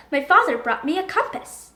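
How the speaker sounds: ordinary delivery, nothing marked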